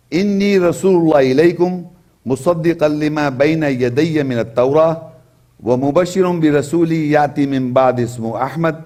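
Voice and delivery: fast, flowing Arabic chant; Quran recitation. Acted. Preacher quoting scripture to listeners, chanted recitation. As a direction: recite the verse in one smooth melodic run.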